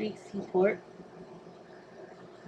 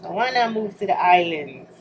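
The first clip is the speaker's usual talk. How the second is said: put-on Jamaican accent; 5 dB louder than usual. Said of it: "that was a Jamaican accent".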